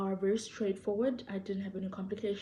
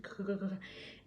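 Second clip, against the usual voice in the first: rapid stuttered "kakaka" for a pounding heart; soft rattling heartbeat noise; imitated racing heart; 6 dB quieter than usual. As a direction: imitate a heart hammering in quick soft bursts. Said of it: "my heart's gonna be".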